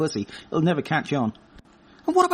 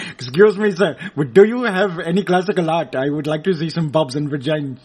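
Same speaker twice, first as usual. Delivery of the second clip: put-on Indian English accent; mock Indian accent; 3 semitones lower than usual. Indian man asks about classical art, mock Indian accent. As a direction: imitate an Indian man asking politely. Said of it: "all those Indian men going".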